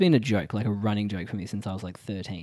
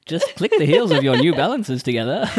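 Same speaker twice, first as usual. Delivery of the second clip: laughing; 12 semitones higher, 5 dB louder than usual. Pretend. Wizard of Oz parody line.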